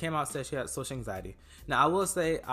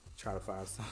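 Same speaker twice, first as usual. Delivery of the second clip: talking with a runny nose; stuffy cold voice. Real, not acted. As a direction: speak through a head cold. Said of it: "my nose is running".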